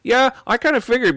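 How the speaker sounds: knowing nod of a trucker. Retold or imitated. Trucker to Ian, impressed and knowing.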